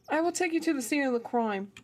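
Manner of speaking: awkward trial British accent; attempted British accent. Shown as a demonstration. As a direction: try out a British voice for a game character. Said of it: "That sounded horrible".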